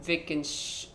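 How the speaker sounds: German-accented attempt at "Wittgensch-", cut off. Shown as a demonstration. Player testing how to say a philosopher's name, German accent. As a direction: try "Wittgensch-" with German sounds, then break off. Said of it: "how do you say it in a German accent".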